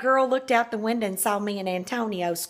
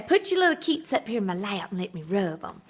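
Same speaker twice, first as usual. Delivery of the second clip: softer, lightly voiced father, "keets" for feet; imitating Daddy; 4 dB quieter than usual. Father coaxing his little girl, softer lightly voiced. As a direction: murmur it like a fond daddy, only a hint. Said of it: "he used to say".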